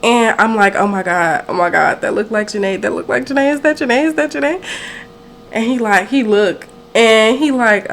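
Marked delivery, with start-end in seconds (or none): 0.8-4.6 retold fangirl fluster climbing in pitch; freaking out. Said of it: "I was visibly freaking out".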